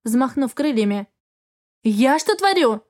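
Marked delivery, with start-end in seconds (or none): 1.8-2.8 taken aback. Acted. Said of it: "опешила я".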